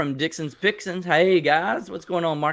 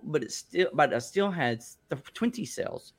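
stumbling over the words while reading; tongue-tied; 5 dB quieter than usual. Real, not acted. Host reading a viewer's comment, tongue-tied. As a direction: trip on the words and restart, tailing off softer. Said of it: "I get tongue-tied like you do".

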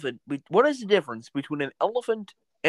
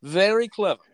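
John Oliver as the Joker. Acted. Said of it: "do John Oliver as, uh, the Joker".

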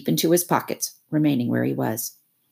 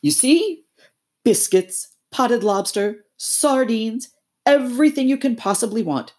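high, eager toad voice; boastful Toad; 5 semitones higher than usual. Acted. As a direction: rattle off the treasures proudly. Toad lists the cart's stores.

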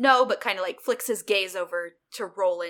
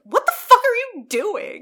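loud, high-pitched outrage in a mock Aussie accent; 11 semitones higher, 9 dB louder than usual. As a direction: imitate an indignant Australian, pitched way up. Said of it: "In her Aussie accent".

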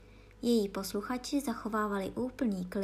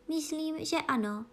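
musing, starting higher; thoughtful; 7 semitones higher than usual. A narrator's reading. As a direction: answer as if thinking it over. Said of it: "řekla Alenka zamyšleně". (zamyšleně)

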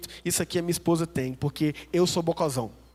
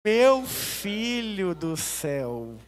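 exasperated wife; much slower than usual. Retold or imitated. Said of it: "Ela falou".

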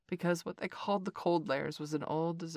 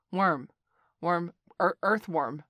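mocking taunt; 6 dB louder, slower than usual. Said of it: "said Bagheera".

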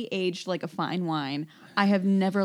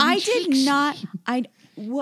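Gollum voice; 4 semitones higher, 4 dB louder, slower than usual. Retold or imitated. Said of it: "just killing the Gollum impressions".

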